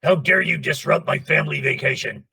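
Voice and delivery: mock-outraged king scolding Mario; Scott Burns Bowser. Bowser audition voice match, lightly done indignant villain. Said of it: "I did my best Scott Burns".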